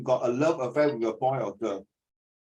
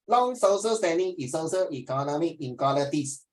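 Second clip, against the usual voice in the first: "Long social standing is social economic inequalities" slurred together the Singlish way; Singlish imitation. Shown as a demonstration. Teacher mimicking the student's Singlish reading to correct him. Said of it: "that is Singapore English".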